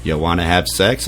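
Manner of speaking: low, soft come-on; low sultry ask. Retold or imitated. Sister waking up and propositioning him, low and soft. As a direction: drop low and quiet, seductive.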